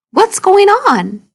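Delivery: a snake asking what's happening; curious snake voice. Acted. Read-aloud Snake asks Hedgehog what's going on, high and slow.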